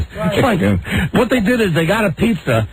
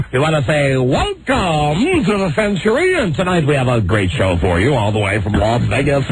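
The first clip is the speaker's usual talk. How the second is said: campy drag queen. Retold or imitated. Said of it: "this guy talked like this".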